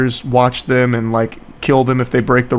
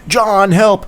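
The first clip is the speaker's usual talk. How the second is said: higher-pitched imitation of a struggling friend; mock cry for help; 5 semitones higher than usual. Friend struggling in the forest calls to John, mock pleading. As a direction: call out as if in mock distress. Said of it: "like, struggling".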